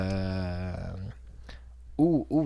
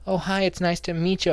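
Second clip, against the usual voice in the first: higher, chirpy party introduction; cheerful higher mock hostess voice; acting out the friend; 7 semitones higher than usual. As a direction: brightly introduce her round the room. Girl greets him as stranger.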